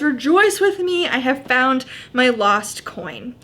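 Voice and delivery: measured Bible reading voice; scripture reading. Acted. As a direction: read the passage clearly to the group. Reads Luke fifteen aloud.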